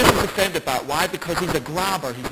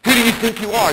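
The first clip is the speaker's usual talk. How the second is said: direct rebuke; 5 semitones higher, 4 dB louder than usual. Retold or imitated. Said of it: "looks this boy in the eye and says".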